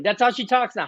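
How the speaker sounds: ordinary talk, nothing marked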